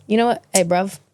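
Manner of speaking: lightly voiced London street slang; British slang accent. Guest showing the host some British slang, light British accent. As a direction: try a casual British "bruv". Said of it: "Can you do a British accent?".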